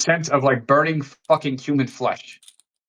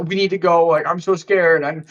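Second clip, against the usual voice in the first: retold panic, pitched up, no real tears; mock-scared pleading, higher voice; imitated frightened pleading; 4 semitones higher than usual. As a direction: imitate a scared friend begging to leave. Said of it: "shaking, crying".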